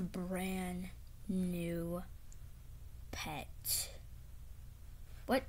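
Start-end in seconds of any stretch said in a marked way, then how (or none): 0.0-3.9 whispered surprise reveal. Acted. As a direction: whisper the word, low and soft. Big reveal to Pokey.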